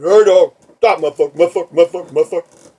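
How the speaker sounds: loud, high, aggressive yelling of curses; repeated cursing yell at the victim; robber's shout. Retold or imitated. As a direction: bark it like a mugger with a knife. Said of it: "he, he goes".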